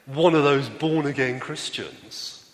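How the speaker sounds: slow, dragged-out mild sneer on "One of those"; mock disdain. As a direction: linger on the words as if they taste bad. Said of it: "the tone of voice with which he said".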